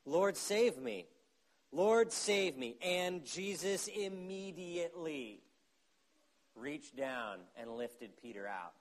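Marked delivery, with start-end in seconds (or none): 0.1-2.8 slow, pleading cry to the Lord; a drawn-out plea, louder; desperate cry for help. Acted. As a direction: cry out as if drowning. Acted desperate cry of Peter.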